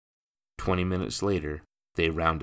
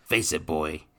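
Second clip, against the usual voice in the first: loud, higher cockney sneer; 8 semitones higher, 6 dB louder than usual. Acted. Stepfather to the boy, sneering cockney. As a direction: crush the boy's hope.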